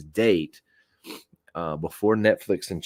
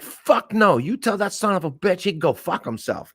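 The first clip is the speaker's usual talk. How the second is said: high, loud outburst from an irate boss; angry refusal; 11 semitones higher, 4 dB louder than usual. Retold or imitated. Boss refuses the driver a customer discount, loud angry outburst. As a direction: blow up and curse him out.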